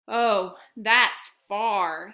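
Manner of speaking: loud, impressed oh; big hare taken aback, fondly; big hare amazed at the moon. Acted.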